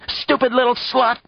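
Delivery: Stupid little slut shouted high and grating; grating fury. A narrator's reading. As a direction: repeat Stupid little slut with strained rage. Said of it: "words grating out of her own throat".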